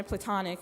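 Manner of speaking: platonic leaned on firmly, each syllable clear; stress on platonic. Real, not acted. Graduation speaker stressing platonic about her friend Mark. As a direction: hit the word platonic so nobody misreads it. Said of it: "and I stress the word platonic".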